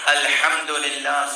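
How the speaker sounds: slow, exact "الحمدللہ" with each Arabic sound clear; careful recitation. Shown as a demonstration. Preacher modelling correct Quran pronunciation, slow and precise. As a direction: recite "الحمدللہ" slowly as in prayer. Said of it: "صحیح کہیں".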